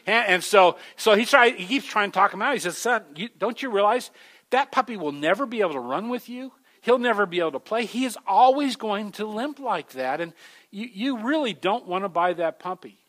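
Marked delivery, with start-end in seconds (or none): 2.8-13.0 higher, earnest pleading; pleading store owner. Retold or imitated. Store owner pleads with the boy, higher and earnest. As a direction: try hard to talk the boy out of it.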